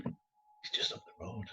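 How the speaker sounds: slow, breathy whispered inner thought. Retold or imitated. Brooding alone about the bully nearby, slow whisper. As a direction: hush it like a secret you barely dare think.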